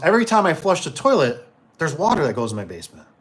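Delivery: high start, matter-of-fact; lightly voiced oddball customer; lady explaining. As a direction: homeowner tells repairman about her toilet, high then level. Lady explains toilet problem.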